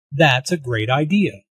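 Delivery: "great" emphasized within the phrase; measured demonstration stressing "great"; emphasis on GREAT. Shown as a demonstration. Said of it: "Notice the emphasis on great".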